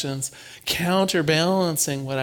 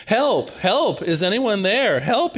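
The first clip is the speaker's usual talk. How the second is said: a light, half-acted call for help, a bit higher; calling up the cliff, only mildly hammed-up; mock yell for help; 4 semitones higher than usual. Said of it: "Jack begins yelling for help".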